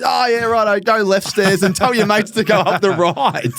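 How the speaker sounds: slow, high mock bouncer with a laugh; bouncer relenting. Doorman letting the player in, laughing mock voice. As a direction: give in slowly like the doorman. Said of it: "He goes".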